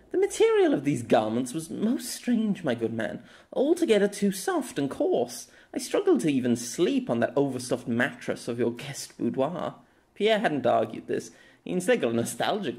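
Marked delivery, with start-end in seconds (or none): 0.1-9.8 put-on haughty noble girl.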